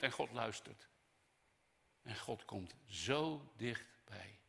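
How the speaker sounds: soft and very slow after the outburst; hushed reverence. Real, not acted. Preacher assuring that God comes close, tender. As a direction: let it settle, drawing out the closeness.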